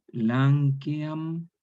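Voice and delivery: "lanceam" read out as Latin, four syllables lan-ce-am; "lanceam" pronounced as classical Latin. Shown as a demonstration. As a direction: spell out "lanceam" slowly as a Latin form. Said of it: "Como por ejemplo, en latín".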